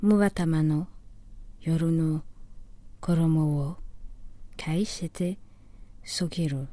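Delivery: measured Japanese verse recitation, phrase by phrase; solemn poetry reading in Japanese; poem recital. Acted. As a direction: recite the waka with long pauses between phrases.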